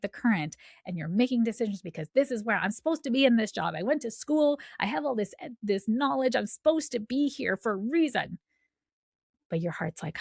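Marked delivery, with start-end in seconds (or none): 2.1-8.4 higher-pitched, insistent protest; insistent self-justifying. Acted. Mind fighting the current, insisting in a higher voice. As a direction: argue your case, pitched up. Voicing the stubborn, deciding mind.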